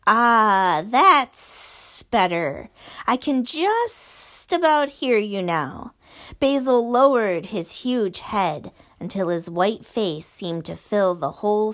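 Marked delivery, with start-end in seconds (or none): 0.1-5.9 very slow, satisfied purr; gloating giant. Acted. Basil gloating at Measle's apology, very slow. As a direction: savour the boy's fear.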